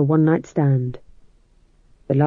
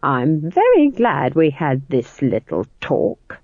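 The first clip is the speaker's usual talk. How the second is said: hissed; slower than usual. Acted. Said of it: "hissed Nanny Ogg".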